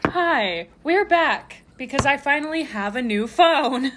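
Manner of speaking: talking through a mouthful; words around a bite of food; chewing while talking. Real, not acted. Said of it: "ignore the chewing".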